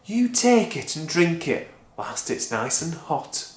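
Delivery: butter her up; sweetly. Acted. Mister Cranky sweet-talking Grandma, sugary.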